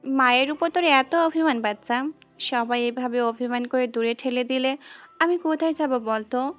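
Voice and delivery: put-on doting baby-talk reassurance; soothing mother. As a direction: coax a sulking little one tenderly. Mother soothes sulking pet, acted.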